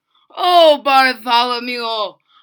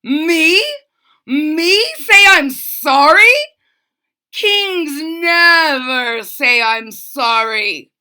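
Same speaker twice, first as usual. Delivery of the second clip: outraged king; 3 semitones higher, 10 dB louder than usual. A narrator's reading. King shouting that kings never apologise.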